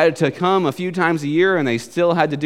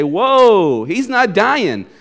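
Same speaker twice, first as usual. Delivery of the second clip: louder, drawn-out mock astonishment; amazed reaction; 2 semitones higher, 3 dB louder, much slower than usual. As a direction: act out a stunned onlooker, slowly. Islanders amazed that Paul survives.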